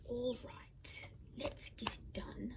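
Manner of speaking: put-on slow, drawn-out British accent. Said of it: "I just did that British accent".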